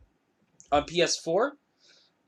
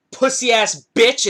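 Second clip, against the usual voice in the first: slow, louder mock jeer; acted parting insult; 3 semitones higher, 6 dB louder, slower than usual. Driver leaving the teller, imitated parting insult. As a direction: toss out a drawn-out retold insult.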